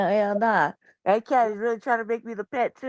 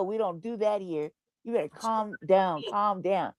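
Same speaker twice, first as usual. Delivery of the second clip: firm calming; 3 semitones lower, 4 dB quieter, slower than usual. Retold or imitated. Retold calming of the cat.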